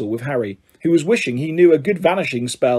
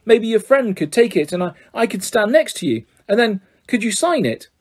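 higher pleading voice; imploring boy; 6 semitones higher than usual. A narrator's reading. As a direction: plead hopefully. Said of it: "looked imploringly at Harry".

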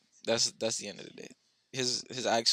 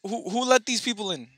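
mock outrage; 9 semitones higher than usual. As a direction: play the offended host, hammed up. Mock outrage at friends' comments.

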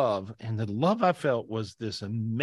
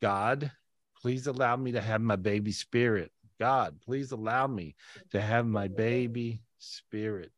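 prayer; 2 semitones lower than usual. Shown as a demonstration. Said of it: "I want you to simply say".

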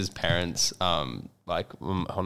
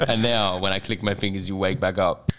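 soft echoing dream voice. Pretend. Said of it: "they'll do an A S M R for you".

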